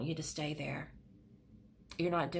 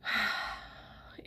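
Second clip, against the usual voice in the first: emotional sigh; 2 semitones higher than usual. Real, not acted. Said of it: "I'm feeling very emotional".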